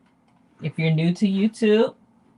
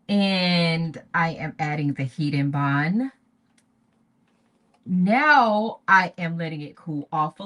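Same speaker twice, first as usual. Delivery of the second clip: elementary teacher voice. Real, not acted. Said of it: "When I start talking slow like an elementary teacher".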